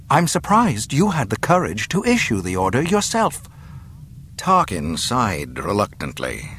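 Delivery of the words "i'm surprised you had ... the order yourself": put-on higher, scornful young captive; defiant princess. Captive princess retorting to the governor, defiant scorn. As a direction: throw the threat back with scorn.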